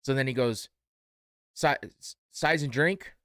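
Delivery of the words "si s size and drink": rushed mumbled question; real fast. Retold or imitated. Cashier rushing the customer, fast mumble. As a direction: rattle it off fast like a busy cashier. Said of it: "Like, real fast".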